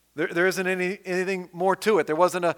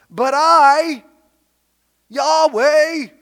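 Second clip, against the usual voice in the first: much louder, higher proclamation of the name; booming divine voice; 9 semitones higher, 11 dB louder, much slower than usual. Acted. Preacher voicing God to disobedient Judah, booming. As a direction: thunder out God's own name. God declaring himself in scripture.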